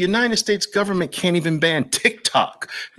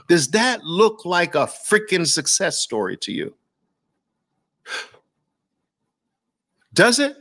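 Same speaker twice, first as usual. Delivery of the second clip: incredulous; 4 semitones higher than usual. Real, not acted. Incredulous rant at dollar chart.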